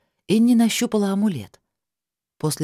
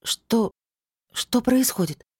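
croaked; 6 semitones higher, slower than usual. A narrator's reading. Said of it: "прохрипела".

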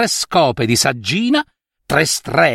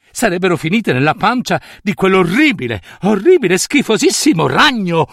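indignazione; 3 semitones higher than usual. Acted. Nutria indignata contro le streghe.

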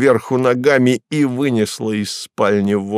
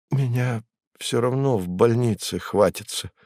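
timidly; 7 dB quieter than usual. Acted. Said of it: "робко добавил он".

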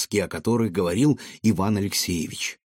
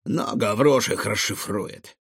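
slow, considered reply; measured, pondering continuation; thoughtful; slower than usual. Acted. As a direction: muse it without hurry. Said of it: "задумчиво ответил Рикошет".

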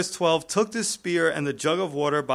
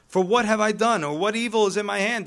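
raised, forceful reading of a plea; projected, higher-pitched recitation; scripture reading; 5 semitones higher, 4 dB louder than usual. A narrator's reading. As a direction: read the questions out firmly. Verse read before paraphrase.

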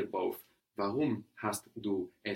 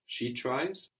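ordinary delivery

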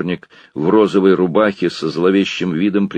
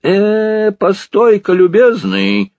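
bossy drawl; 6 dB louder, slower than usual. A narrator's reading. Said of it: "начальственным басом протянул толстый господин".

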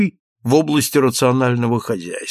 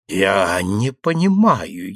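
moaning; 5 semitones lower, slower than usual. Acted. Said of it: "простонал граф".

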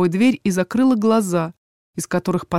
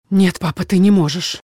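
hoarse from shock. Acted. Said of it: "охрипнув от шока, выдавила я".

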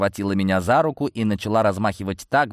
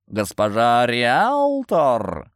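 snorting; 3 semitones higher, 3 dB louder, much slower than usual. Acted. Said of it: "фыркнул кошак".

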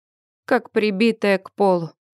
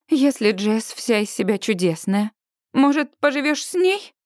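holding back a shout, building; menacingly rising voice. Acted. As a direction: let the threat creep up. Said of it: "как угрожающе нарастает мой голос".

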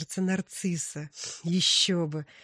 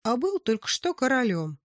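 high, louder proud boast; excited boast; 7 semitones higher, 7 dB louder than usual. Acted. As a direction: brag about being king. Miller boasts.

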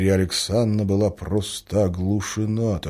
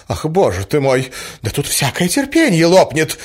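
exasperated cry; 9 semitones higher, 7 dB louder than usual. A narrator's reading. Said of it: "кричала Марья Александровна".

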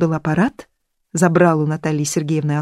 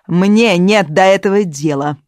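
proclaiming; 2 semitones higher, 6 dB louder, slower than usual. A narrator's reading. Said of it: "провозгласила Натали".

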